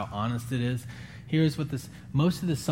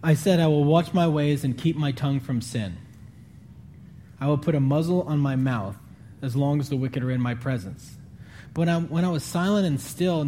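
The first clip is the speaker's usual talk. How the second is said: measured, raised scripture reading voice; 2 semitones higher than usual. Acted. Pastor reading a psalm to the congregation, solemn. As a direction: read the psalm with weight and care.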